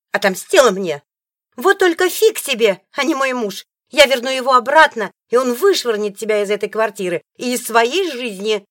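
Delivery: high, loud shrieking threats; angry threat. Acted. Rival shrieking threats at the ex-wife. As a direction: vow revenge at full volume.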